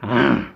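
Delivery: a short loud mock chomp "ah"; lightly voiced monster bite; chomping gulp. Walt's head eats Mickey, a short loud chomp. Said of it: "used his mouth and went".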